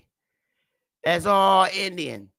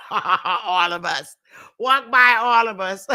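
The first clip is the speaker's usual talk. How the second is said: laughing taunt. Real, not acted. Taunting a Mohawk while laughing.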